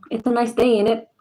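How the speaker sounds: lightly hammed British small talk accent; mock British slang accent. Imitating that type of English, mock British accent. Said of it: "That type of English".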